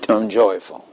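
half-hearted, obedient recital; unconvincing. Acted. Jim obeys God's order to say he's joyful, unconvincingly. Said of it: "that is not very convincing".

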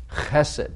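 Chesed with a rough throaty ch, KHEH-sed; Hebrew pronunciation. Shown as a demonstration. Teaching the Hebrew word Chesed, guttural ch. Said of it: "Say chesed".

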